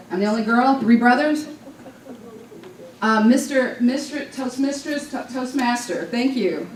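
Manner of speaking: halting, unsure first-timer, x0.5 in places; nervous beginner voice. Shown as a demonstration. Newcomer at her first club meeting, nervous and halting. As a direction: stumble through like a timid newcomer at her first speech. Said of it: "I was talking like this".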